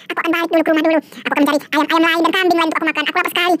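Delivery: lightly voiced prowling ghost; scheming Kuyang ghost. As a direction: plot like a hungry ghost. Villain ghost figure speaks.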